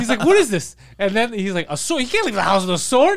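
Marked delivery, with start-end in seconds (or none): 0.2-0.8 high, loud baffled outburst; mock freak-out. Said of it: "he's freaking out". 1.7-3.2 high-pitched incredulous outburst; mock freak-out. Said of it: "he's freaking out".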